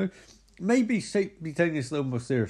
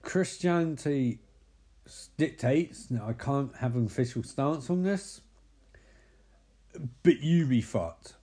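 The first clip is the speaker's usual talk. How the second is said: calm. Retold or imitated. Psychic gives his official stance, calm and measured. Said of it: "he calmly says".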